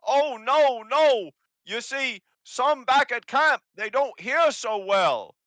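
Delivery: high, loud goblin yelling; yelling hobgoblin. Acted. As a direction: shout it so the deaf can hear. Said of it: "why are you yelling".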